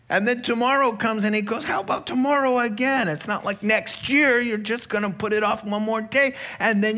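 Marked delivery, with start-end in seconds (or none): 1.6-3.1 devil tempting. Acted.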